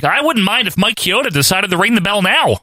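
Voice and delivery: high-pitched mock commentator; Kevin Kelly impression. Co-host mimicking the announcer wanting the match stopped, high mock commentary. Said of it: "Kevin Kelly's like".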